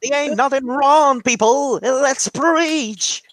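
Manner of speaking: high mock sermon cry; mock preacher. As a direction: ham up a preacher urging the crowd. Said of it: "I'm doing the fat black priest".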